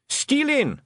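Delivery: high, drawn-out shout; high chorus-style cry. Acted. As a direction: shout it like a gang answering its leader. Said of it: "shouted the blue men".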